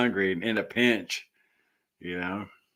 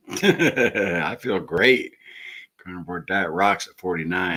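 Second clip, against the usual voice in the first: laughing; 2 semitones lower, 4 dB louder than usual. Real, not acted. Laughing while joking about age.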